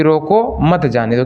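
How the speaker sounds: slow रोको, comma pause, then मत जाने दो in one go; pause after रोको. Shown as a demonstration. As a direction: stop briefly after रोको. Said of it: "कामा है". (रोको के बाद ठहराव)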